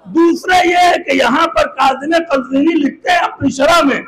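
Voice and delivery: ringing pulpit oratory with sustained pitch; impassioned preaching. Acted. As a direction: declaim forcefully to the assembly. Preacher declaims at full force.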